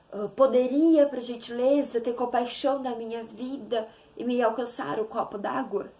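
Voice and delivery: hammed-up ceremonious ask for water; flowery request to mother for water; mock flowery request. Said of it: "Ou sua mãe é".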